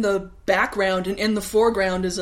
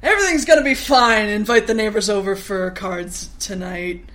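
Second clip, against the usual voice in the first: manic cheer; 2 semitones higher, 5 dB louder than usual. Retold or imitated. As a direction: force the optimism. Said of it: "He's almost like".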